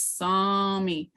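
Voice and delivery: "saw me" with "saw" stretched long; lengthened sound. Shown as a demonstration. Teacher repeating the example word, lengthened vowel. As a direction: hold the "aw" in "saw me". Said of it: "on lengthened sounds".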